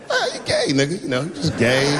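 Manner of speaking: acted-out noncommittal mumbling; imitated mumbling. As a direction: mumble a vague non-answer. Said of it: "I started mumbling again".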